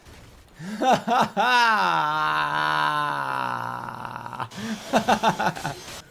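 long, loud laugh stretched into a held cry; loud outburst laugh. Real, not acted. Player reacting to game failing, loud drawn-out laugh. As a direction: let the laugh swell into one long yell.

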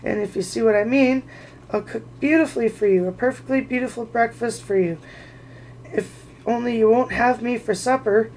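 gasping plea. Acted. Bilbo to Bert, a mildly frantic plea. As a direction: beg them not to cook you. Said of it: "Bilbo gasping".

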